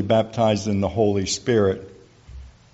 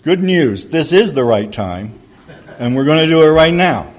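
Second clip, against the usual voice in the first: louder, higher bursting good news; enthusiastic; 6 semitones higher, 7 dB louder than usual. Retold or imitated. To Tomas, announcing he'll pray now: excited burst. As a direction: pounce on him with joy. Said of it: "in my enthusiasm".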